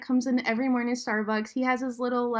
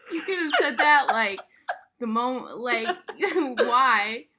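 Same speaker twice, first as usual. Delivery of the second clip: laughing exasperation; 2 semitones higher, slower than usual. Retold or imitated. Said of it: "I'm like".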